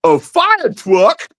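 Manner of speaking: high, slow, thrilled "A fire truck?"; excited kid. Retold or imitated. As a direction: stretch it out like a delighted child.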